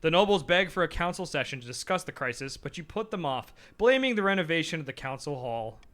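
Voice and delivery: story narration. Acted. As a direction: narrate the game text like a storybook. Reads game narration and characters.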